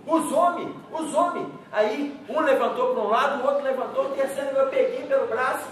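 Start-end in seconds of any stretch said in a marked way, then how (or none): 0.1-1.5 higher, raised warning shout; retold shout. Boy shouting a warning that police are coming. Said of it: "gritou assim".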